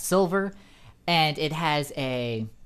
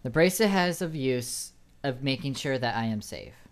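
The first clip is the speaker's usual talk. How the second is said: flat, emotionless gnome voice; monotone voice. Acted. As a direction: say it with no emotion at all. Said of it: "I need to get back into my monotone voice".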